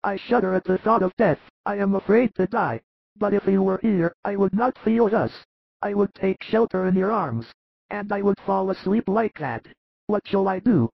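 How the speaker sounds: frail high voice, anxious; frightened dying Lazarus. Acted. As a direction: voice a dying man's fear of death.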